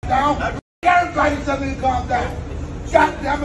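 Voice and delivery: furious yell at the crowd; angry shout. Real, not acted. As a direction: shout it, fed up. Angry man yelling at group.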